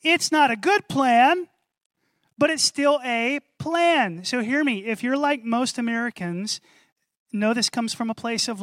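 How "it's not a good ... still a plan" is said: knowing observer. Pretend. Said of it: "the person following you around would say".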